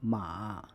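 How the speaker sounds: ma with its full low dip and rise; the base form of the third tone ma; ma in Mandarin third tone. Shown as a demonstration. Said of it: "For example".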